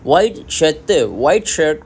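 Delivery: वाई शर्ट said slowly as wai shat; Korean accent. Shown as a demonstration. Teacher spelling out the Korean वाई शर्ट, Korean accent. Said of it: "white से निकला है वाई".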